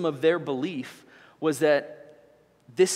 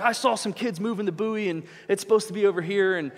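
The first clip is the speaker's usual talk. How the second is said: higher, hurried mock grumbling; retold angry complaint; 5 semitones higher than usual. Boater complaining about the moved buoy, mildly mock-angry. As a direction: imitate a mad boater making his case. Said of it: "he's mad".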